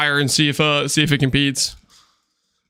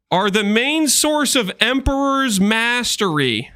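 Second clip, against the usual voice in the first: slow read; 4 semitones higher than usual. Shown as a demonstration. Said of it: "emphasis on the word poor".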